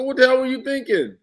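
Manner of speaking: high, incredulous mock scold; exasperated retort. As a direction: scold him in disbelief. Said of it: "I go".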